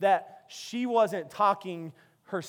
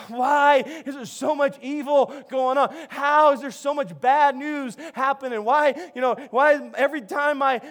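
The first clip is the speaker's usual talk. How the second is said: louder, acted-out exasperation; exasperated complaint; 3 semitones higher, 4 dB louder than usual. People fed up with constant bad news, exasperated complaint. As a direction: plead for answers, emphatically.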